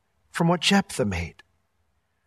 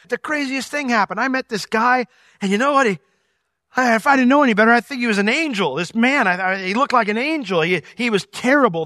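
higher, wide-eyed telling of a strange visitor; excited wife; 5 semitones higher, 4 dB louder than usual. Retold or imitated. Wife telling husband about the angel, excited and higher. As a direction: play the wife bursting with news. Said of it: "she goes".

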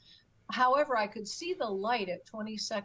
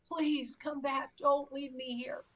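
retold crying; 5 semitones higher than usual. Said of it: "And now I'm crying".

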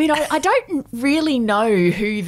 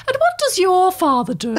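put-on old lady voice; 5 semitones higher than usual. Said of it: "sort of lines like".

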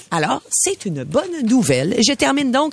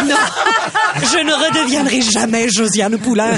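defiant princess; 5 semitones higher than usual. Acted. Princess threatens spell.

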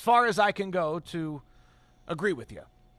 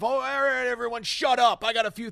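loud vocal leader; 4 semitones higher, 3 dB louder than usual. Retold or imitated. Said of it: "I'm not talking about a vocal leader".

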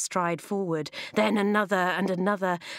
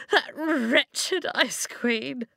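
high, slow snivelling whine; 7 semitones higher, much slower than usual. Acted. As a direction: whine it through sniffles. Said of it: "the grey man snivelled".

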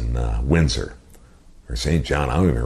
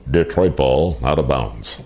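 lightly voiced announcer call, falling at the end; a hint of a mock PA announcer; slower than usual. To his buddies, mocking the PA announcer's call, lightly announced. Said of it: "Mocking him".

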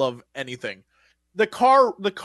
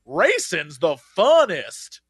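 animatronic line; 3 semitones lower, much slower than usual. Retold or imitated. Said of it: "he was literally going like".

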